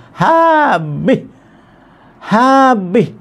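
high, drawn-out storyteller's cry; theatrical high-pitched lament; dramatic exclamation. Retold or imitated. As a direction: stretch each word high for total ruin. Wind wipes out the durian crop.

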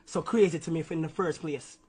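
heated street Jamaican patois. Real, not acted. Young man slips into patois telling manager about the beef, Jamaican patois. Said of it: "My patois just came out".

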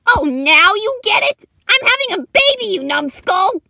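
loud, high exasperated shouting; angry yell. Acted. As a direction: yell at your clueless partner mid-labour. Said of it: "You don't need to yell at me".

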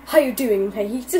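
casual British-accented greeting. Shown as a demonstration. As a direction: show off the British accent lightly. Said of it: "my British accent just comes out like".

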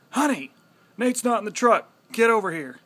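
loud urgent yell across the store; yelling for wife. Retold or imitated. Man yelling across store to his wife, urgent loud call. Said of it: "and I just yell".

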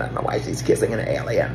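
low, hushed, breathy alien voice; mock alien whisper. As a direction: rasp it like an eerie alien. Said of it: "Why do you sound like an alien?".

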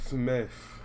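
Smith drawn out with heavy mock weight; mocking emphasis. Streamer mocking the reporter's dramatic delivery of Smith. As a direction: lean hard on Smith like a newscaster. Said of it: "Like she said with so much emphasis".

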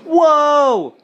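loud, high amazed whoa; surprised shout. Real, not acted. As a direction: blurt it out, genuinely impressed. Teammate reaches level twenty-seven.

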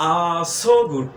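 teacher drilling the contraction slowly; we're as "আ". Shown as a demonstration. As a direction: drag out "We are so good", are a short "আ". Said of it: "আ।".

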